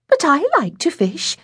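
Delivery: put-on high, plaintive child's voice; small girl's high protest; protesting little girl. A narrator's reading. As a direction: plead like a left-out little sister. Little sister protests being left out.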